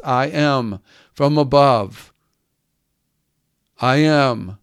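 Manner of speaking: slow, deliberate weight on "I am"; "I am" drawn out and set apart by pauses; emphasis on "I am". Retold or imitated. Preacher showing Jesus' emphasis, slowly stressing "I am". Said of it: "there's an emphasis".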